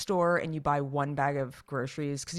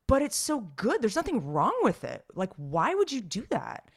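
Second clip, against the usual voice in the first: retold plaintive protest, pitched up at the start; pleading protest; 5 semitones higher than usual. Protesting to the store lady about discontinued salsa, plaintive. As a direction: protest like a let-down loyal customer.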